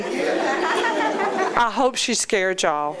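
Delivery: slow with a laugh; chuckling through the words. Real, not acted. Laughing remark to audience.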